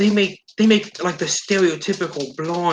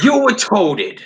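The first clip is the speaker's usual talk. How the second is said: laughing insult; 7 semitones higher, 5 dB louder than usual. Real, not acted. Mocking the blog writers.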